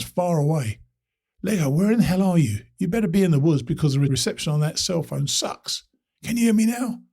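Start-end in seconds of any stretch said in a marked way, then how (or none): 1.4-7.0 much higher, calling down a bad line; half-shouting into a cell phone. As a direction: raise it to be heard over static. Shouting over a bad connection.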